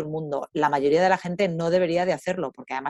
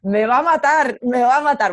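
near tears; 3 semitones higher, 4 dB louder than usual. Retold or imitated. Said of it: "el tío casi llorando".

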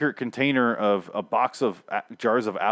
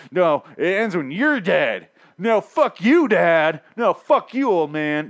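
put-on much higher, louder, whiny teenage yell; mock Rick screaming like an angry teen; hammed-up adolescent tantrum; mocking bratty teen; 8 semitones higher, 7 dB louder, slower than usual. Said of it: "That's what it felt like".

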